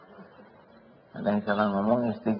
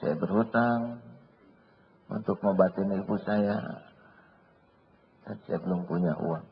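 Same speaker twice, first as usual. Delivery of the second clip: humble prayer; 4 dB quieter than usual. Acted. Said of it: "ambil wudhu".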